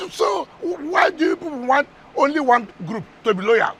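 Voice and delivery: slow, loud, heated demand; heated shout. Real, not acted. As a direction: hammer it home in full anger. Heated argument on live TV.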